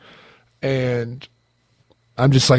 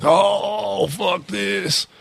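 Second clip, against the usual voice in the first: mock dismayed outburst; 6 semitones higher, 5 dB quieter, much slower than usual. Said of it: "It's not like I was like".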